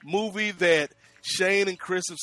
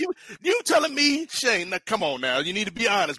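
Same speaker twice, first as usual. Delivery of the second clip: mock disbelief; 4 semitones higher than usual. Real, not acted.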